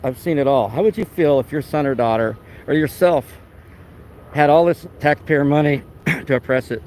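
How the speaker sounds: earnest, insistent rant; worked up. Real, not acted. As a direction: get worked up as you press the point. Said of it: "I'm getting all worked up".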